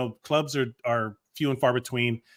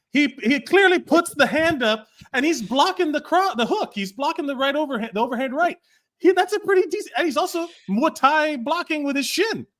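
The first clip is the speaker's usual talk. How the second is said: excited laughing analysis; 11 semitones higher than usual. Real, not acted. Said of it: "excited breakdown of the defense".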